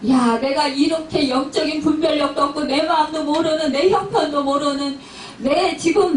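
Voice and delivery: aggrieved, mildly angry outpouring; acted angry complaint. Suffering believer complaining the pastor doesn't understand, mildly angry. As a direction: build from grumbling into a pained complaint. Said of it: "화를 내면서".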